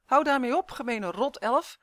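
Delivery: loud, high yell easing slightly; angry shout. A narrator's reading. Boy pushed into the hedge yelling at elf, shouting. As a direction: shout at your tormentor to stop. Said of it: "schreeuwde Justin".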